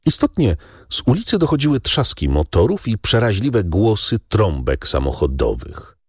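ordinary delivery

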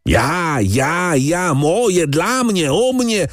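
the count spits out each "ja" climbing in pitch; outraged brother mocking his sister's selfishness; furious rant. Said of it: "Hrabia wpadł w furię".

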